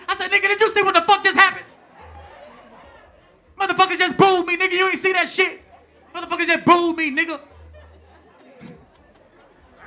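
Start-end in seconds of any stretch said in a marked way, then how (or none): 0.3-7.4 loud, high, fast indignant yell; angry. Retold or imitated. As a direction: yell at the promoter in disbelief. Angry reply to promoter.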